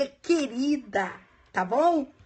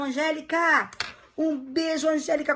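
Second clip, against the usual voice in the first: excited shout-out; 5 semitones higher than usual. Real, not acted. Greeting a colleague in chat.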